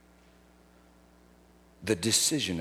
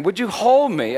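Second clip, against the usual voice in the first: retold pleading prayer; 11 semitones higher, 9 dB louder than usual. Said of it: "That's what she kept praying".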